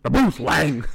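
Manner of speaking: imitating an Asian accent; mock Asian accent announcement. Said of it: "And he's like".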